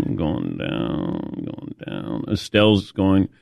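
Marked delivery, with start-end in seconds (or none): 0.1-2.2 slow, fading into a breathless whisper; mock fainting. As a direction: let the voice sink and die away like falling over. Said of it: "I am the leaning tower of Patrick".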